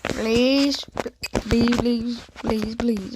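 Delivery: loud pleading please; loud begging. Real, not acted. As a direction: beg loudly, over and over.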